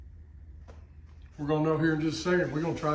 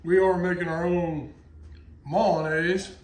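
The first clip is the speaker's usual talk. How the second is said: "mayonnaise" said the Cajun way as "mal-uh-naise", rising at the end; Cajun accent; 4 dB louder, slower than usual. Shown as a demonstration. Cook announcing homemade mayonnaise to viewers, in a playful Cajun accent. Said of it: "Try to put that Cajun accent in there".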